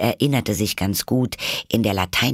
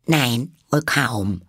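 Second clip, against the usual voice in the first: slow, higher, friendly concession; 5 semitones higher, slower than usual. A narrator's reading. Alice soothes the furious mouse, friendly tone. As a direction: draw it out amiably. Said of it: "sagte Alice in freundlichem Ton".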